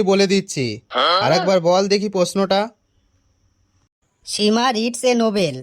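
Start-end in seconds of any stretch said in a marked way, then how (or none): 4.2-5.6 higher, slow and deliberate; slow repeat. Acted. Pupil repeats the question for teacher, slowly. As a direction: dictate the sentence slowly.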